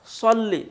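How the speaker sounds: "صلی" high, with a heavy rounded s; thick saad. Shown as a demonstration. Teacher drilling the prayer word, thickened saad. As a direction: say "صلی" as "sawlli", tongue back. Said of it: "صاد سے صلی".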